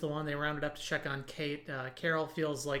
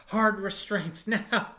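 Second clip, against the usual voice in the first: slow, haughty order, a bit louder; pompous voice; 5 semitones higher, 6 dB louder, slower than usual. Retold or imitated. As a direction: bark it out pompously and slowly. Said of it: "her most pompous voice".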